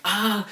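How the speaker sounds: short high-pitched mock yelp; imitated freak-out cry. Host imitating Ash as his hand gets hacked, mock freak-out. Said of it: "he's freaking out".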